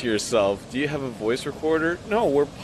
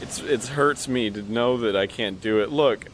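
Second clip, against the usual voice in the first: holding back tears. Acted. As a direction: voice close to tears. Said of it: "You sound like you're gonna cry".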